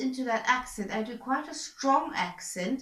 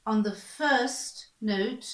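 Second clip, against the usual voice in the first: slow emphatic; much slower than usual. Shown as a demonstration. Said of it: "it helps a lot to put an accent".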